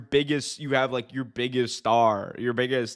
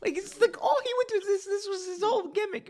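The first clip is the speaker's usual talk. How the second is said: much higher, squeaky mocking voice. Mocking X-Pac's gimmick to the co-host, high squeaky voice. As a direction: squeak it like a cartoon.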